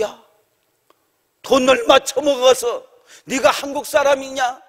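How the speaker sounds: mock berating, slowing on the accusation; retold abusive scolding. Boss cursing the pastor who pleaded for a worker, retold scolding. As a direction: imitate the boss's rude, scolding outburst. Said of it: "하면서 그냥 욕을 해가는데".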